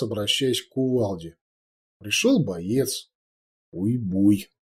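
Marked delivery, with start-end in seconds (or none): 3.7-4.5 timid but dignified. A narrator's reading. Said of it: "робко, но с достоинством".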